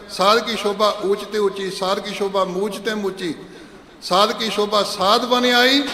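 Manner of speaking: measured, devotional recitation of the verses; gurbani recitation. Acted. Preacher reciting the shabad to the sangat, devotional recitation. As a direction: intone each line evenly with reverence.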